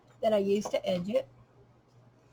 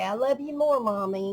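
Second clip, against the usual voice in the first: daughter's reply; 3 semitones higher, 5 dB louder than usual. Retold or imitated. Daughter's voice in bedtime game.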